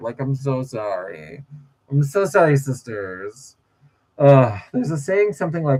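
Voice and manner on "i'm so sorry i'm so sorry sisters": put-on teary voice, drawn out, fake tearful. Imitating a fake apology with fake tears: James Charles fake apology voice. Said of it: "the way James Charles is sorry".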